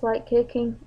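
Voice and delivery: talking through hiccups; words broken by a hiccup. Real, not acted. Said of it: "I'm got the hiccups".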